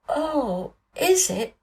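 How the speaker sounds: high, gasped surprise; a thrilled boy gasping at a secret; breathless gasp. A narrator's reading. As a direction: catch your breath in wonder. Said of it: "gasped Colin".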